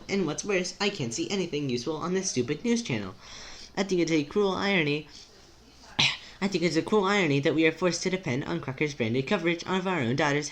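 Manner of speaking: anxious, formal character. Acted. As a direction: fret in measured, elevated speech.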